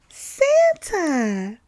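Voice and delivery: high, loud startled cry; surprised cry. A narrator's reading. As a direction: gasp out the name in surprise. Reindeer sees Santa appear.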